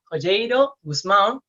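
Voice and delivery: slowly sounding out Joyeiro Guzmán; careful foreign name. Acted. Host unsure of the Portuguese name Joyeiro Guzmán, slow careful pronunciation. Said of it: "Espero haber dicho bien".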